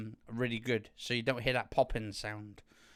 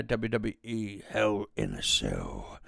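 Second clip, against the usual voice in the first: mock announcer; 3 semitones lower, slower than usual. Says event title as an announcer.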